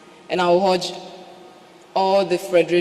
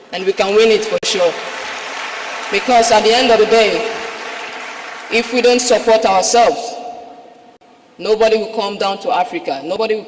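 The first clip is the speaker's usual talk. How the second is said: rising, louder passionate appeal; rousing; 2 semitones higher, 3 dB louder than usual. Real, not acted. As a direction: build it up with passion. Rousing climax of speech.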